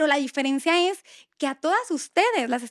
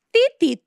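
higher and louder beep noise bleeping her own swearing; mock censor beep; 8 semitones higher, 6 dB louder than usual. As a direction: beep out the curses playfully. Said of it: "yo la mal hablada". (pitido de censura en broma)

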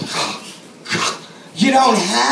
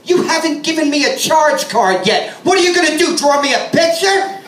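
sarcastic retort; 4 semitones higher than usual. Retold or imitated. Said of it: "And I said".

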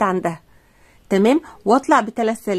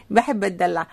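playful pampered; 3 semitones lower, 3 dB quieter than usual. Acted.

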